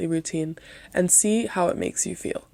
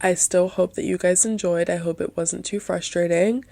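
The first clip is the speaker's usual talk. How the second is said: soft, stuffy nasal tone. Real, not acted. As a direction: keep it nasal like a cold. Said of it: "my nasally, softer voice today".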